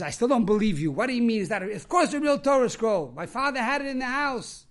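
animated retold protest; indignant insistence. Mister Horowitz refuses to believe the rabbi, indignant. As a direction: insist with mild mock indignation.

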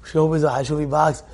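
ordinary talk

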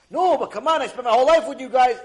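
high, loud fast plea; loud rushed pleading; desperate begging. Acted. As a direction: beg them not to leave. Man begs his family.

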